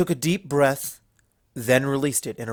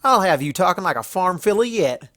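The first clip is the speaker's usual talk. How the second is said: loud, higher, amused bark; 6 semitones higher, 6 dB louder than usual. A narrator's reading. Applejack teasing Luna about farm talk, barking loudly. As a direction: crow with delight. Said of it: "the orange mare barked".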